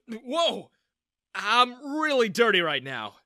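high, loud startled cry; exclaimed. Acted. Ethan startled by a sudden hug, exclaiming. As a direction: yelp it out in surprise. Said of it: "I exclaimed".

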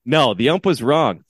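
re-enacted coach's protest; yelling at umpire. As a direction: insist firmly, drawing out the words. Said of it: "still yelling at this umpire".

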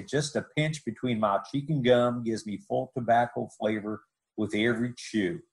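a hint of a Texan ad pitchman; Texas accent. Retelling Walt Garrison's old TV tobacco ad in a Texas accent. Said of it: "you did a great Texas accent there".

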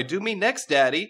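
high, loud come-on with a rising end; flirty swoon. Acted. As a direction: tease it out breathlessly eager. Lusty court member.

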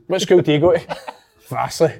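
mock-posh question through a laugh; teasing laugh at a fancy word; laughing mockery. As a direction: laugh while you mock his big word.

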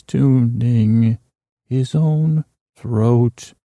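very slow, spaced-out words; drawn-out throat tuning. Pretend. Host describes Scoots tuning his throat, drawn out. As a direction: linger on each word as if tuning.

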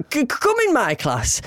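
high-pitched, stammered mock order; teacher ordering pupils. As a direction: imitate a flustered teacher summoning pupils. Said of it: "And went".

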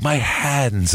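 "hands" with British vowels slipping through; non-New York "hands". Retold or imitated. Host mocking the actor's slip, British-tinged "hands". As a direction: imitate a botched New York accent on "hands". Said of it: "can't say the word hands like a fucking New Yorker".

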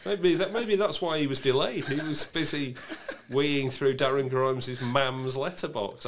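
giggling through it; laughing. Real, not acted. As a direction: laugh while saying it. Laughing at own joke.

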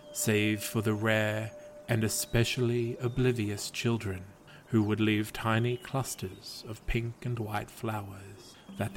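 calm, even storyteller read of a gentle fable; story narration. A narrator's reading. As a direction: tell it like a bedtime legend. Reads a fable aloud.

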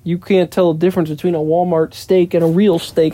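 lightly voiced know-it-all friend; mildly mock his smug lecture; a hint of a smug friend talking down; smartass imitation. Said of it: "Eric was being a smartass".

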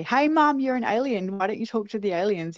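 put-on high-pitched playful kid teasing; joking teasing. Sisters joking to their mum about being an alien, teasing. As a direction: imitate a child needling a parent. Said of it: "we started joking to our mum".

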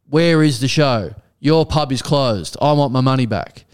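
slow, emphatic word-by-word complaint; all-caps demand. Retold or imitated. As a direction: act out an angry text typed in capitals. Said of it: "capital letters".

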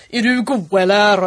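lightly put-on Gothenburg dialect; Gothenburg accent. Shown as a demonstration. Imitating a jolly Gothenburger, Gothenburg accent. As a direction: tease with a Gothenburg lilt. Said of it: "sån här jävla god göteborgare".

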